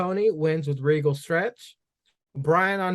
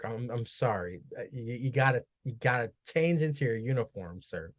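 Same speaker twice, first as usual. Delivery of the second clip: hesitant, ever softer boss fumbling his words; timid boss asking an employee to change shirts, fading softer; nervous manager; 5 semitones lower, 3 dB quieter than usual. Pretend. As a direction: stammer it out like a scared supervisor. Acts nervous boss at work.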